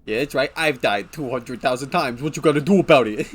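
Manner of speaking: smug. Retold or imitated. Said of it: "he says smugly".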